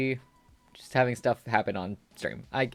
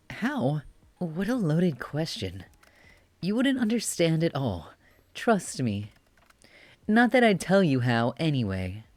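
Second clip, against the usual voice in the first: put-on higher, smug bratty boy voice; bratty cute boy; 4 semitones higher than usual. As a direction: tease like a cocky little brat. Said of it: "give him a cutie voice".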